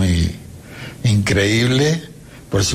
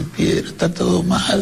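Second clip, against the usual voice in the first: friend's alarmed voice; 10 semitones higher than usual. Retold or imitated. Friend gives bad news, retold.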